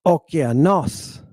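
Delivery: "okeanos" slow, with final NOS stressed and held; stress on accented syllable. Shown as a demonstration. Teacher giving the proper pronunciation, accented syllable lengthened. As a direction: give the last syllable of "okeanos" extra time. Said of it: "putting a little extra time on that syllable".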